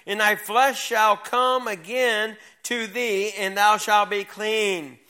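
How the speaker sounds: slow, measured Bible reading; scripture reading. Acted. Teacher reading Second Kings to young people, slow formal scripture read. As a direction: read the verse out slowly and with weight. Reads scripture aloud to youth.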